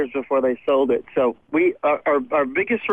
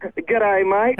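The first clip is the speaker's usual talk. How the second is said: an American trying an Australian "G'day, mate"; imitated Aussie accent; 3 semitones higher than usual. Shown as a demonstration. Guest copies host's greeting on request, attempted Aussie accent. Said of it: "Can, can you say".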